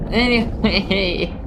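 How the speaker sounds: slow stretched "anyway" falling at the end; drawn-out anyway. Real, not acted.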